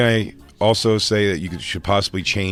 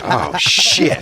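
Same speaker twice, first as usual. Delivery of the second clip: laughing; 9 semitones higher, 3 dB louder than usual. Real, not acted. Realizing his radio blunder.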